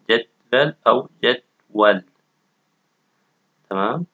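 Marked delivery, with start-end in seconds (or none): 0.1-2.0 جدول said slowly, first with e then with a; two pronunciations. Shown as a demonstration. Teacher showing both ways to say جدول.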